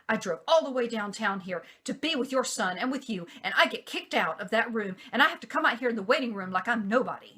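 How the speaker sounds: girlfriend's imagined rant at Nark, mild mock anger; imitating angry girlfriend. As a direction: act out her huffy complaint. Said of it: "she was pissed".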